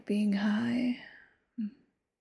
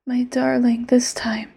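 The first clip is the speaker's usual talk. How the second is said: whispered yandere lover; 10 dB louder, faster than usual. Acted. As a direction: close whisper, sweet and possessive.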